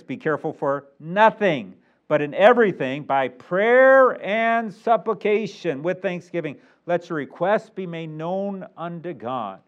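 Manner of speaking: slow recitation swelling on the key words; measured pulpit reading; emphatic scripture reading. Acted. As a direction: read the verse out slowly, leaning on each big word.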